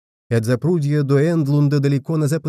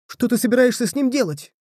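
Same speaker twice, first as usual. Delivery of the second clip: shouting; 10 semitones higher than usual. A narrator's reading. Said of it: "крикнул Блоди".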